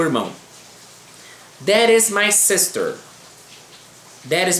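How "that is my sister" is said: "That is my sister" read slowly and a bit higher; slow model reading. Shown as a demonstration. Teacher reading example sentence to students, slow. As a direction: lay out "That is my sister" carefully for learners. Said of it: "Vamos ler exemplos aqui".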